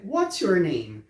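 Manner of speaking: "What's your name?" devagar, com o A de what soando O; pronúncia de inglês lenta. Shown as a demonstration. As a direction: modele a pergunta em inglês, bem devagar. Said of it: "a pergunta é". (pergunta em inglês pronunciada bem devagar)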